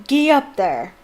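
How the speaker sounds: loud, bluff roar. A narrator's reading. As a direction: holler at the beasts. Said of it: "he roared".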